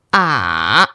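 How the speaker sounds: ah dropped very low and held; "ah" long, low, dipping; low flat tone. Shown as a demonstration. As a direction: sink "ah" to the bottom of your voice. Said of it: "low flat tone".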